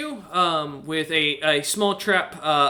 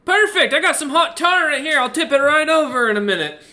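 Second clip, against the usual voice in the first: loud, high-pitched Aussie shout; bellowing Australian; 10 semitones higher, 6 dB louder than usual. Acted. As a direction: holler down cheerfully to someone below in an Australian accent. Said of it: "bellowing down".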